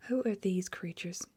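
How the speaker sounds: slow, drawn-out whispered bellow; bellowed question. Acted. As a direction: demand it in outrage. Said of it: "he bellowed".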